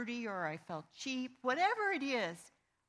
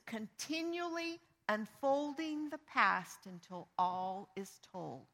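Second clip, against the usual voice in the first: slow, weighty reading of the scripture phrase; slower than usual. Shown as a demonstration. Pastor reads the Amplified verse to the congregation, slowly. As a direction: draw out continually unfolding the past. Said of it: "and it says".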